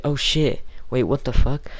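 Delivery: high, loud startled outburst; shocked friend impression. Streamer voicing a friend's shock in group chat, startled high outburst. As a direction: imitate a friend caught totally off guard. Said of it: "my best impression of him".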